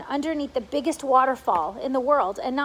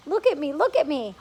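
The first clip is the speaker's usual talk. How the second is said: bright excited calling out; excited shout; 3 semitones higher, 4 dB louder than usual. A narrator's reading. Centipede freed from the paint, calling out excitedly. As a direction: call out for everyone to look, thrilled. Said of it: "shouted the centipede excitedly".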